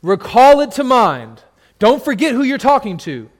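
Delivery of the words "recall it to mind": God's command. Acted. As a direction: proclaim it as God speaking. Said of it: "That's God".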